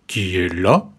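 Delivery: the wolf answering from the bed; gruff wolf voice. A narrator's reading. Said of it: "la grosse voix du loup".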